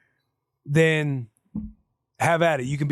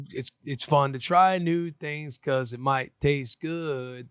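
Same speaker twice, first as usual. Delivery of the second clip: Daniel Tiger voice; much slower than usual. Retold or imitated. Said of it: "That's Daniel Tiger".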